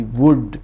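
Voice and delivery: वुड with the vowel pressed down and held short. Shown as a demonstration. Teacher showing students the pressed short vowel in वुड. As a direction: press the sound in वुड down as you say it. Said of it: "आवाज़ को हमने दबा के बोला है".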